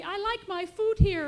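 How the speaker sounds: put-on high, loud protest of a scared baby; crying baby. A narrator's reading. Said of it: "cried baby".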